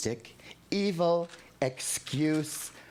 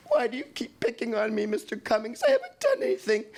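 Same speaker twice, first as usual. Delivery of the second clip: higher, fast, pleading through sobs; sobbing; 9 semitones higher, faster than usual. Retold or imitated. Boy in the hall begging Mister Cummings, sobbing. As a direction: beg him to stop, in tears. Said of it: "Sobbing, sobbing".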